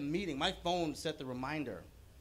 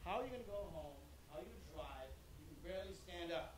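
retold yelling therapist; 3 semitones higher, 13 dB quieter than usual. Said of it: "and she yells out".

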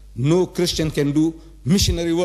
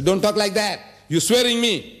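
high-pitched, indignant protest; indignant rebuke; 8 semitones higher than usual. Acted. Allah rebuking those who are swearing him, indignant.

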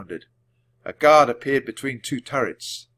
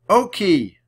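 high, loud, drawn-out yell, slow; 11 semitones higher, 8 dB louder, slower than usual. A narrator's reading. Annie yelling at the fleeing puppy, high and loud. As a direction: yell after the dog across the woods. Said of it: "Annie yelled".

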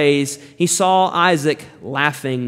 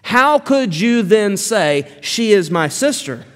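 rebuking question; 3 semitones higher than usual. Acted. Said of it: "That is a rebuke".

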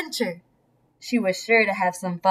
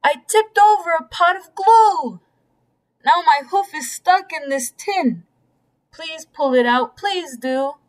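pleading cow; 5 semitones higher than usual. Acted. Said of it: "old Sal cried".

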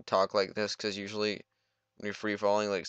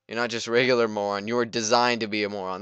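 louder, mocking robot insult; a light take on a taunting computer; quoting game line; 7 dB louder than usual. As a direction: sneer it as the villain AI. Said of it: "my favorite line of dialogue".

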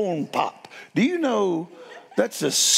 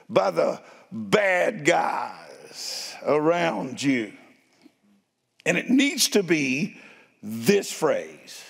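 slow, swelling preacher's cadence; building sermon; slower than usual. Acted. Pastor urging the church on from Acts four, preaching with rising force. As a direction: drive each phrase home to the congregation.

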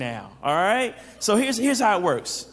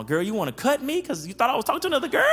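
amused mock scolding; 6 semitones higher, faster than usual. Voicing a jealous girlfriend scene.

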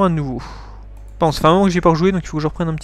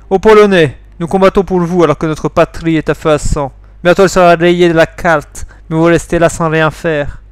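soldier pleading in a put-on Polish accent; lightly mocked-up Slavic accent. Accused soldier reproaches France, put-on Polish accent. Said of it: "il faut que je prenne un accent polonais".

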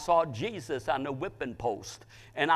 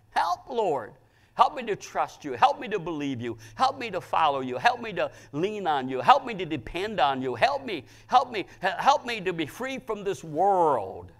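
pleading, repeated appeals, mostly raised in pitch; fervent prayer; 3 semitones higher than usual. Acted. Preacher praying to the Lord for help, fervent. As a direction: press each plea, lifting HELP.

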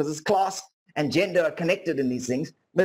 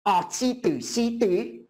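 lightly voiced well-meaning auntie, a bit higher on the name; a hint of a condescending auntie; imitated auntie; 3 semitones higher, slower than usual. Older white auntie greeting her nephew's black friend, lightly imitated. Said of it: "your auntie says to your black friend".

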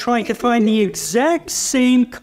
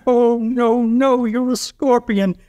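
lightly voiced frog, pitched up in protest; alarmed frog; 5 semitones higher, slower than usual. Frog refusing to carry the scorpion across, alarmed. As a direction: protest as the frog, higher and drawn out at the end.

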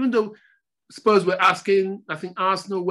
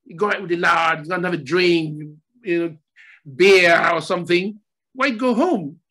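put-on Scottish accent; 4 dB louder than usual. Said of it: "He spoke in a Scottish accent".

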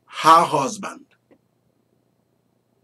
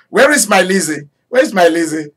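put-on Indian accent; 3 semitones higher, 3 dB louder than usual. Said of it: "Let me speak like Indian people".

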